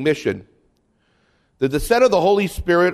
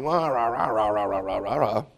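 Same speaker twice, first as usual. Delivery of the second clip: mock bishop talk; 5 semitones lower, 6 dB quieter than usual. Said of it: "That's bishop talk".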